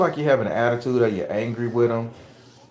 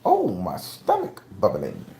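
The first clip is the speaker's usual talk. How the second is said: TikTok dude impression; 3 semitones lower, slower than usual. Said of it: "like that dude off TikTok".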